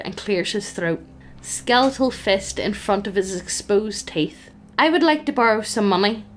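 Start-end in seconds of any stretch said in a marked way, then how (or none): 4.8-6.2 cheerful. Acted. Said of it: "he says cheerfully".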